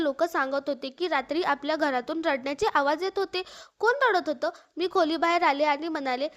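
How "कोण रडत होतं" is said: louder, raised demand; demanding father. Acted. Father back home asking who cried at night, loud. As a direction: call it out sharply through the house.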